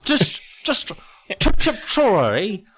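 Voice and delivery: squeaky high, loud cartoon chipmunk; angry chipmunk. Mocking the British guide voice, angry chipmunk squeal. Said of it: "The angry chipmunk".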